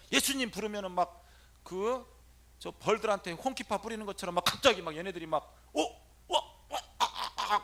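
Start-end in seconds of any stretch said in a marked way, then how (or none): 5.7-7.6 a hint of panicked spirits, high; startled spirits. Spirits startled when Jesus' name is called, lightly voiced. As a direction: voice the demons flinching in alarm. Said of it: "막 하는 거야".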